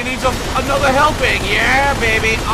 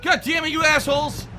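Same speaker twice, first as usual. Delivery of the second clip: road rage yelling; 6 semitones higher than usual. Real, not acted. Raging at cops.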